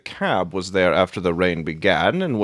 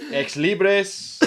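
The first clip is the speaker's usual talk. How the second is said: laughing; 8 semitones higher, slower than usual. Real, not acted. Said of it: "laughs at the Latin".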